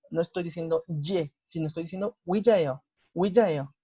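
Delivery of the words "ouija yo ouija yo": Ouija, yo with plain e-o, never ye; Ouija, yo said wi-ja-e-o, the y silent; Korean pronunciation demo. Shown as a demonstration. Teacher shows students Ouija, yo without ye. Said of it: "Nunca suena la ye".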